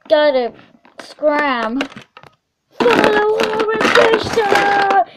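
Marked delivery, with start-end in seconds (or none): 2.7-5.0 cheery character call. Acted. Character voice invite.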